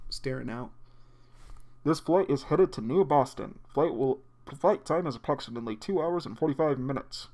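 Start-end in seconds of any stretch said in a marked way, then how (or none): 1.8-7.3 over the intercom. Acted. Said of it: "this is your captain speaking".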